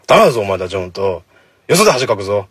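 loud bursts of half-serious telling-off; mock scolding. Host warning listeners not to embarrass themselves elsewhere, mock scolding. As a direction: play the stern one briefly. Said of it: "怒っといた方がいいのか".

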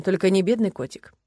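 plain reading voice

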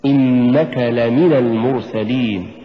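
slow reading, "لمن" as la-mi-na; correct لمن. Shown as a demonstration. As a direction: say لمن with la and min kept distinct. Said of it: "قل".

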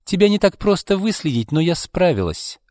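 high-pitched, understated anger; mildly irate acted challenge; angry declaration. A narrator's reading. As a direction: confront someone you have tracked down. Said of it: "Кочергина гневно прищурилась".

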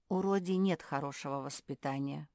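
ordinary delivery, nothing marked

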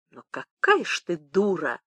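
a touch of spiteful admiration; understated, nasty admiration. Acted. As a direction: mildly marvel at her with malice. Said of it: "со злым восхищением".

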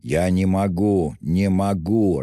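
irritated repetition, drawn out slowly; slow, irritated insistence. A narrator's reading. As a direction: drag the words out in mild exasperation. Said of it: "раздражительно повторял он".

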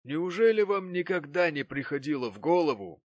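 put-on an old uncle questioning the girl; old Martin. A narrator's reading. Old Martin gravely asks Mary.

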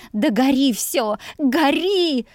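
high strained cry of despair; anguished moaning cry.

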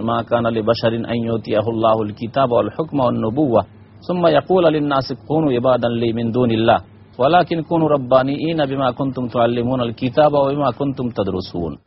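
even, continuous Arabic recitation; Quran recitation. Acted. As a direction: recite the verse in a steady chant-like reading. Recites the next verse. (কোরআন তিলাওয়াত)

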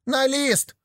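гораздо выше, звонкий выкрик; выкрикни «лист!». Acted. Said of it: "выкрикивали". (третий слепой выкрикивает в споре)

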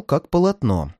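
usual speaking voice

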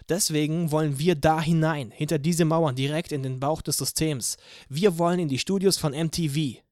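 rally the crowd from the rooftop; rousing speech. Acted. Anna harangues the crowd from the roof, loud rousing speech.

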